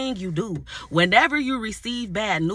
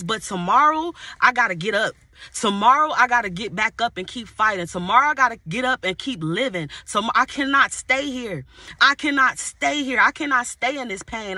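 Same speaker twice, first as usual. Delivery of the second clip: rising preaching fervor. Acted. Preacher pleading to God through the pain, rising fervor. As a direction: preach it harder line by line.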